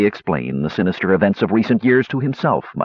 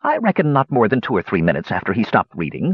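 put-on old dwarf voice. Dwarf hermit telling story.

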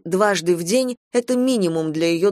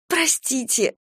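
squeaked; 6 semitones higher, slower than usual. Acted. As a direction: squeak out an apology. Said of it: "пропищала Дуня".

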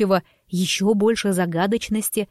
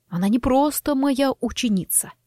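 ominous drawl; 4 semitones higher than usual. Acted. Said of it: "зловеще протянул Вейлон".

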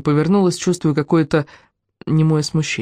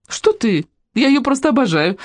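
higher, overly bright fib; breezy lie; 8 semitones higher than usual. A narrator's reading. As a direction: fake enthusiasm on the fly. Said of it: "на ходу соврала Руби". (Руби на ходу врёт Полу, наигранно восторженно)

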